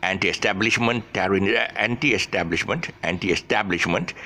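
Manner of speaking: "anti-establishment" recited with a beat on TAB; running stressed syllables. Shown as a demonstration. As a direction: drill "anti-establishment", marking TAB and lifting the end. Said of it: "the stress syllables to you".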